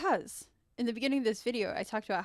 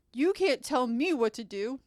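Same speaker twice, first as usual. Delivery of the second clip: defiant guy; 3 semitones higher, 7 dB louder, slower than usual. Acted. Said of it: "that second guy was just like".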